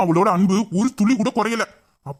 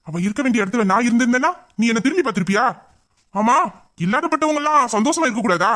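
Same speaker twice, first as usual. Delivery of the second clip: heated rebuke; 4 semitones higher than usual. Acted. Hero angrily defends the girl.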